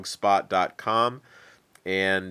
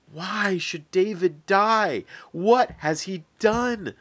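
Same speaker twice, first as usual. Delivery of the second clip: slow, higher desperate plea; pleading; 10 semitones higher, slower than usual. Acted. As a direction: beg your father to spare your friend. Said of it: "Jonathan pleaded".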